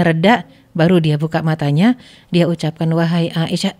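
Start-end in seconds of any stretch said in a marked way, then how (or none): 2.9-3.8 calm, level address with no anger in it; flat even tone. Retold or imitated. The Prophet, anger passed, addresses Aisyah in a flat calm tone. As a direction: say her name evenly, the anger already gone. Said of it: "nadanya datar".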